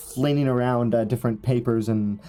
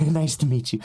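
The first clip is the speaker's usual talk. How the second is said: scraggly hunchback; 4 semitones higher than usual. Acted. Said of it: "his hair is really scraggly".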